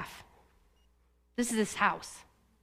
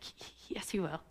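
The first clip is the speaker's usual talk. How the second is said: barely audible, halting imitation of disbelief; faint stammered protest; 6 semitones lower, 16 dB quieter than usual. Me, bawling and afraid, answering his promise, faint stammered protest. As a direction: stammer it under your breath, hardly voiced. Retells her tearful, frightened disbelief.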